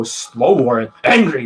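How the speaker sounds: mock angry, words dragged out; slow and angry. Shown as a demonstration. Coach showing how students slow down, mock angry. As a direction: imitate a slow, growly anger. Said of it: "They sound like this".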